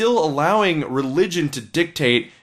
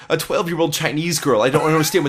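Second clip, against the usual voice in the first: lightly imitated New York comic, fussing; Woody Allen; 2 semitones higher than usual. Podcaster trying Woody Allen for his laughing co-host, lightly imitated. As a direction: stammer into a mild, put-on neurotic comedian voice. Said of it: "I can't do Woody Allen".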